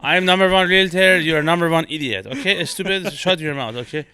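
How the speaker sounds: put-on high, loud Persian-accented braggart easing off; Persian realtor. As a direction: boast and insult in a heavy Persian accent. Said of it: "the Persian realtor".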